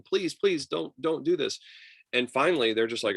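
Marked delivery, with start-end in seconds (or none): 0.0-1.6 high, louder mock pleading; mock begging. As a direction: beg him half-seriously not to quit. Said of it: "they're begging him".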